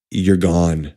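slow, low mock threat; low menace. Patient glaring at departing doctor, low menace.

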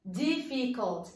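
"Difficult" slowly broken into syllables. Shown as a demonstration. Teacher showing students that "Difficult" has three syllables, slowly split up. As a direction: sound out "Difficult" one syllable at a time. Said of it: "three syllables".

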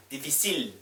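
"difficile" said slowly, the final l sounded; slow careful model. Shown as a demonstration. Teacher explaining the pronounced l, slowly. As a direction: stretch "difficile", sound the l clearly. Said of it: "엘 하나밖에 없으니까".

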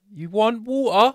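high, slow tourist pidgin question; simplified English. Acted. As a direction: spell it out slowly for a foreigner. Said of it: "and simplify".

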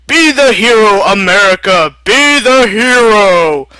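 rally him like a coach; rousing call. Acted. Tony urging America to be the hero, loud and rousing.

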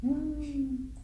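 gemidinho agudo e baixo de medo; small, high, soft fearful "hmm". Shown as a demonstration. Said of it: "o medo". (gemido de medo)

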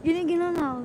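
quick laughing repeat. Real, not acted. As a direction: laugh it out fast. (natatawang sinasabi)

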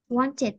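"Wanted" with the -ed ending sounded clearly; teacher's model word; modelling -ed ending. Shown as a demonstration. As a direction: say it as a model for repeating. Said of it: "đọc lại nè".

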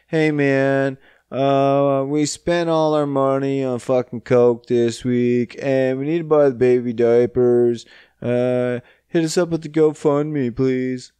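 hard-luck plea, mockingly acted; mock begging. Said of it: "they're just begging".

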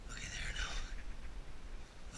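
slow, hushed looky there; drawn-out whisper on there; awed whisper. Real, not acted. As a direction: breathe it out in wonder at the ice. Finds the ice.

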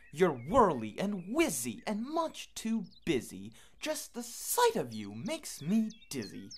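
high, loud, cross bird shouting them off; grumpy go-away bird. Acted. Go-away bird's refrain.

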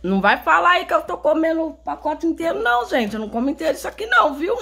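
mock protest. Real, not acted. Joking protest to viewers.

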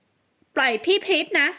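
put-on a small girl shouting bravely at a grown man; lightly voiced child protecting her big sister; little girl. A narrator's reading.

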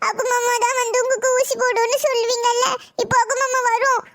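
tearful comfort. Acted. Child comforting sick grandmother.

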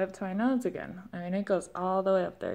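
speaking with lip pulled up; upper lip held up. Real, not acted. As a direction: fingers holding lip up. Seen 0: Fingers pinch upper lip up toward nose while speaking, mouth open.

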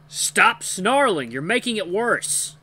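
loud, high, drawn-out scolding; snapping. A narrator's reading. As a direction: snap angrily at a companion. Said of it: "gray wolf snaps at his companion".

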